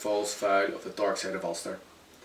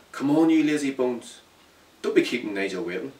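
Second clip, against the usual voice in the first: mum scolding; 3 semitones higher than usual. Acted. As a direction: chivvy him out of bed. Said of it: "She said again".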